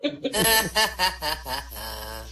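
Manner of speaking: loud, slow words through real laughter; can't hold back the laugh. Real, not acted. Telling jokes, cracking up.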